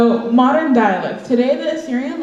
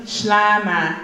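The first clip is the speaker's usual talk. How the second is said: slow teaching. Shown as a demonstration. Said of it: "I'm gonna say it slow".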